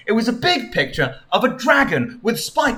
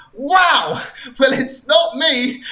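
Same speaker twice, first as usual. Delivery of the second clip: mock retort; 8 semitones higher, slower than usual. Sonic retorts.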